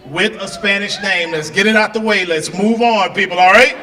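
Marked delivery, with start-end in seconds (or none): 2.2-3.8 loud rising call to the crowd. Real, not acted. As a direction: punch it out to the audience. Crowd work, calling out.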